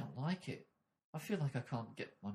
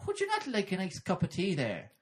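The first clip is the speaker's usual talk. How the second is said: Irish lilt; 6 semitones higher than usual. Retold or imitated. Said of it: "in an Irish lilt".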